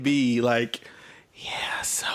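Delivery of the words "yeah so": soft ASMR whisper; full whisper. Shown as a demonstration. Mocking ASMR whisperers to a co-host, full whisper. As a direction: breathe it like an ASMR video. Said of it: "I don't like the full whisper".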